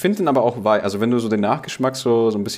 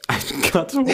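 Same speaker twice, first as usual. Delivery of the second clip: high silly voice; 14 semitones higher than usual. Pretend. Jokingly high delivery.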